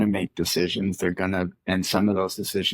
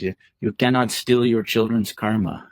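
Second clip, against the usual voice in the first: retold with a light Iranian accent; a hint of an Iranian accent on measured words. Soccer friend advising a struggling father, light Iranian accent. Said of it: "it's in that beautiful Iranian accent".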